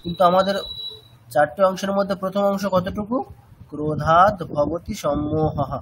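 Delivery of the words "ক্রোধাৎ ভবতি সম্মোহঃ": "সম্মোহঃ" ending on a breathy h, not an s; slow chant of the first quarter, visarga kept. Shown as a demonstration. Teacher showing the correct quarter-verse reading. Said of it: "তাই জন্য বিসর্গের উচ্চারণটা করা হচ্ছে ওখানে".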